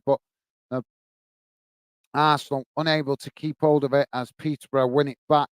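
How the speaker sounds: steady running commentary on a Peterborough press; live play-by-play. Acted. Streamer calling the match for his live chat, easy play-by-play. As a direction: call the foul and free kick as they come.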